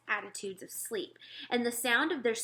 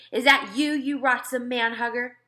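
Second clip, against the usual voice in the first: higher, much louder furious bellow; giant bellowing; 4 semitones higher, 9 dB louder than usual. Acted. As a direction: yell it straight at the intruder. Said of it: "he bellowed".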